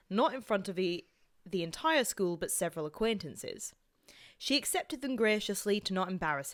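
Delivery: story read in an attempted Scottish accent. Reading a friend's story on request, Scottish accent. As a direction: read it out as a Scot. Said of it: "Can you do Scottish?".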